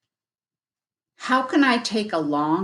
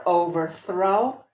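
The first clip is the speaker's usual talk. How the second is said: slow blended "overthrow"; slower than usual. Shown as a demonstration. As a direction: join the chunks smoothly. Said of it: "We put the two chunks together".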